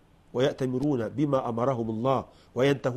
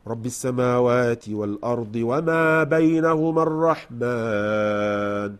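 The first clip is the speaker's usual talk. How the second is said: Quran recitation; slower than usual. Shown as a demonstration. Recites verse.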